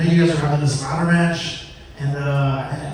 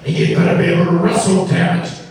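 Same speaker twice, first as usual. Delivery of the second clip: mock warning; 2 semitones higher, 5 dB louder than usual. Vince's parting warning.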